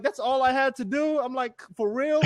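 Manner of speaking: high, surprised "that's all I had to do?"; amazed, pitch jumping up; disbelief. Retold or imitated. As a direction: raise the voice in astonished disbelief.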